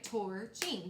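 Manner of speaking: "Torching" broken into two parts; syllable split. Shown as a demonstration. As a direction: say "Torching" as tor, ching. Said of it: "two parts".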